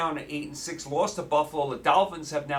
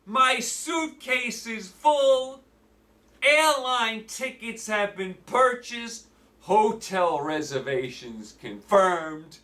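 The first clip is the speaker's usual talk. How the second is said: mock excitement; 4 semitones higher, slower than usual. Sarcastic hype, slow.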